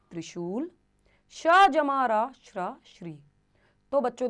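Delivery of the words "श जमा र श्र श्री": श जमा र श्र श्री said slowly and a bit louder; slow spelling demo. Shown as a demonstration. Teacher slowly sounding a conjunct for children. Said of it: "जैसे".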